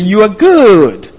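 "good" drawn out with a falling tune; slow down and lean on "good"; emphatic declaration. Retold or imitated. Preacher quoting the psalmist's declaration to the Lord, emphatic stress on "good". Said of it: "psalmist is quite emphatic".

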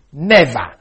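"never" said loud and falling; stress on never. Shown as a demonstration. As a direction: lean hard on "never". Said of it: "we should really translate something like".

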